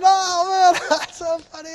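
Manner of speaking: imitating kids cracking up, high-pitched; hammed-up laughter through the words; busting out laughing. Pastor mimics kids laughing at the meaningless joke, hammed-up laughing. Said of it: "they just busted out laughing".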